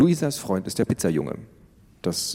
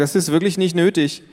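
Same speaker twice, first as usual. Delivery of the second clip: higher, louder embarrassed protest; annoyed teen; 8 semitones higher, 4 dB louder than usual. Acted. Teen daughter brushes off her parents, embarrassed and annoyed.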